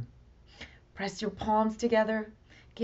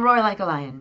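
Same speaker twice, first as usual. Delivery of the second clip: lion roar; 5 dB louder than usual. Shown as a demonstration. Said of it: "If you wanna roar like a lion".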